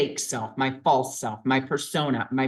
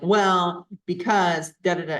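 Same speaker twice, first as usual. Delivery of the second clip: louder, huffy wave-off; a mock justifying "well, because da"; mock defensive excuse; 3 semitones higher, 3 dB louder than usual. Shown as a demonstration. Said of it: "we don't wanna analyze it and be like".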